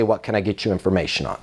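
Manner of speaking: low, quick and down to business; "What can I get you information on?" dropped low and rattled off. Shown as a demonstration. Trainer demonstrating the better greeting, low and quick. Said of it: "why I wanna say".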